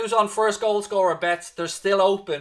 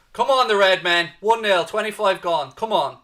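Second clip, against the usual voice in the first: cheering; 2 semitones higher, 6 dB louder than usual. Real, not acted. Cheering on his team.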